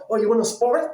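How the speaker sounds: cocky dare. Acted. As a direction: egg them on, puffed-up and playful. Repeats challenge, bigger.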